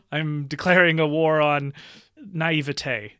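mock-grand declaration breaking into laughter; tongue in cheek. Real, not acted. Podcast guest declares war on naivete, slightly tongue in cheek. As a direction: declare it half joking, laughing by the end. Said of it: "I'm saying that slightly tongue in cheek".

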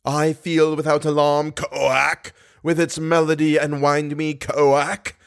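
a lightly voiced croaking toad. Eric voicing a toad to amuse Christine, light croaking. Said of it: "It says".

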